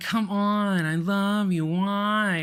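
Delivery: fake-friendly overdone sweetness, very slow and drawn out. Imitating how a woman talks to everybody, imitating Becky's forced friendliness. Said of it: "with the way that Becky talks".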